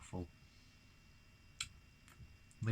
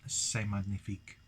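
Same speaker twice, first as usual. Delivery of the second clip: bad French accent. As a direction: put on a clumsy French accent. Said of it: "in a really bad French accent".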